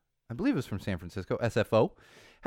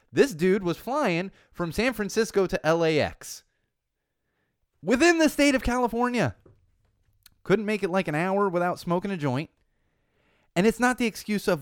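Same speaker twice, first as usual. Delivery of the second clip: 1 exasperated rant; 6 semitones higher, 5 dB louder than usual. Real, not acted. Exasperated rant about the flyer.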